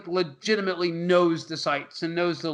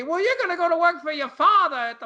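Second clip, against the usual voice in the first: parent voice; 7 semitones higher than usual. Retold or imitated. Voicing parents in movie recap.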